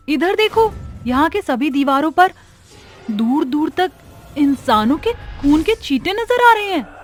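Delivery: high, uneasy voice; alarmed discovery. Acted. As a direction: point out a horror to your friends in alarm. Pointing out blood-splattered walls. (घबराई हुई, ऊँची आवाज़)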